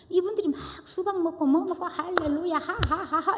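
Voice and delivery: high, giddy imitation of people laughing while praying; mock laughing hallelujah. Mimicking church members feasting and praising, giddy laugh. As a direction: lightly mimic the cheerful church folk laughing. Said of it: "이러고".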